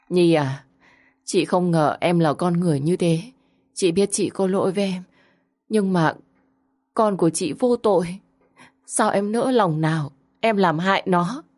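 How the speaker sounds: lightly voiced weeping plea; tearful reproach. Tuyết on the hospital bed blaming Nhi, mock tearful. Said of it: "chị Tuyết khóc lóc thảm thương".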